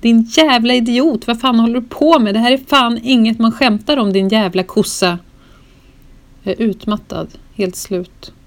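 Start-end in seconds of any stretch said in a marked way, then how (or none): 0.0-5.2 louder, higher furious yelling; louder raging cursing; angry yell. Retold or imitated. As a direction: scream the curses at her in rage. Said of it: "ringa till Sofie och skrika".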